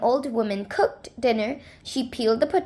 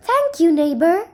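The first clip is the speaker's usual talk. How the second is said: higher, louder thanks; grateful little man; 5 semitones higher, 4 dB louder than usual. Acted. The little man thanks the old man over the fence. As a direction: call out glad thanks, lightly voiced.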